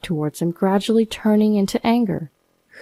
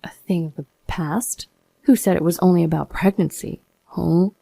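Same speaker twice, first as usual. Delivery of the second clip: cold reply. Retold or imitated. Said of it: "I stared at him coldly and continued".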